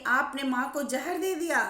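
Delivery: shouting accusation. Retold or imitated. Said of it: "चिल्लाने लगे, चीखने लगे".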